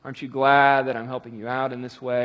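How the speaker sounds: low, condescending mock helper; patronizing. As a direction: act out grudging, patronizing help. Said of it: "not patronizingly, like, you know".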